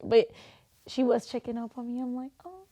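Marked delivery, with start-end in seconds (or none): 2.4-2.7 put-on high, babyish plea; hammed-up needy child; playful little-kid whine. Grown daughter wanting mom, playful little-kid whine. Playfully whining for her mother.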